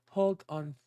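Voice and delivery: slangy street drawl on hold on; hood voice. Pretend. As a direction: tough guy from the block telling you to wait. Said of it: "I said it in a hood voice".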